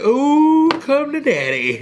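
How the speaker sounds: high gleeful ooh, come to daddy; gloating. Retold or imitated. In the car gloating over free burritos, high gleeful. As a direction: savor the win like a villain.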